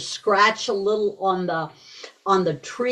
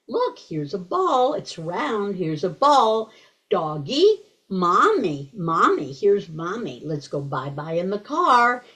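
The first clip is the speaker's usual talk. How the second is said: put-on simplified talk to baby. Shown as a demonstration. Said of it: "That's not baby talk. It's simplified".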